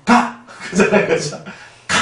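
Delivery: 크게 내뱉는 한마디 가; 짧고 세게 쫓아내; 짧은 내쫓기. Acted. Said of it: "우린 좀 말 좀 짧게 하잖아요". (한마디로 크게 쫓아내는 가)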